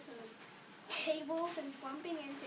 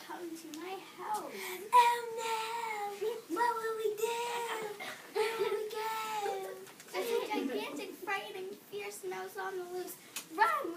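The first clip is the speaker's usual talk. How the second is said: panicked elephants; 5 semitones higher, slower than usual. A narrator's reading. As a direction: panic as if the monster is at the door.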